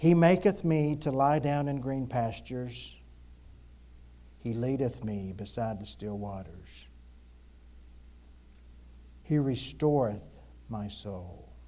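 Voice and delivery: slow, deliberate, unhurried, measured reading aloud. Reading a psalm aloud to set the tone for a lesson, reading slowly on purpose. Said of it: "Now I'm reading slow on purpose".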